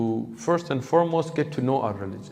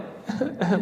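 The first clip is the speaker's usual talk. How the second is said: small, high, quiet imitated whimper; brief soft fake sob, half a chuckle; mock soft crying; 7 semitones higher, 5 dB quieter than usual. Preacher showing what the crying was not like, soft mock sob. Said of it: "Like, not like".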